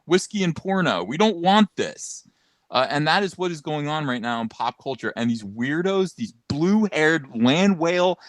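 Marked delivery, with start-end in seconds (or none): 0.1-2.2 higher, slowed, fed-up guys; mocking men's voice. Mock men's rebuttal scene.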